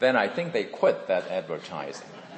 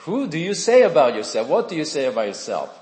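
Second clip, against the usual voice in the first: quick, insistent questioning, higher and louder; pressing demand; 5 semitones higher, 6 dB louder, faster than usual. Retold or imitated. Messengers demanding that John name himself, quick and insistent. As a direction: press him hard for an answer.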